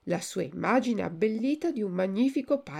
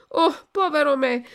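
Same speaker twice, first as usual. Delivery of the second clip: higher, louder anguished cry; 7 semitones higher, 6 dB louder than usual. A narrator's reading. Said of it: "gridò Pinocchio".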